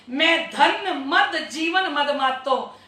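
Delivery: slow singsong scripture verse; chant-like recital with stretched words; verse recitation. Real, not acted. Reciting scripture verse between explanations.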